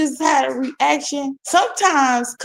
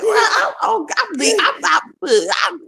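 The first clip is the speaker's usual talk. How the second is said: high stammering panic; flustered stammer; 7 semitones higher than usual. Retold or imitated. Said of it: "I was like".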